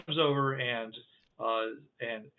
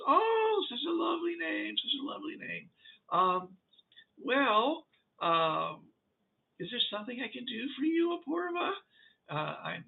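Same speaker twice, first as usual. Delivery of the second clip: high, fluttery delighted voice; high creature voice greeting a newcomer; 5 semitones higher, 4 dB quieter than usual. Acted. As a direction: gush over her name sweetly.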